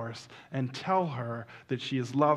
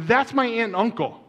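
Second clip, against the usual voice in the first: high, loud, acted excitement; amazed revelation; 8 semitones higher, 6 dB louder than usual. Caller revealing the couple are relatives, acted amazement. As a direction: announce it pitched up and loud.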